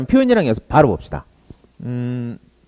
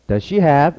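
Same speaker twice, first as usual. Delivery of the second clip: very slow, stretched does she have?; slow drill; 4 semitones higher, much slower than usual. Shown as a demonstration. Teacher slowly models the question to practise. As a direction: spell it out slowly for learners. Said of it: "좀 더 자연스럽게 나오게 연습".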